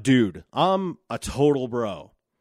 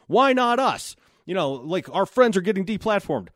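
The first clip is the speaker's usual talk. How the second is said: mocking aggrieved bro; 5 semitones higher than usual. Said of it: "speaking to these men and going".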